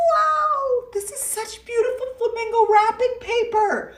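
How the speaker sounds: high, delighted gift-opening squeal; playful excited voice; mock delight. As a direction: gush over the wrapping paper.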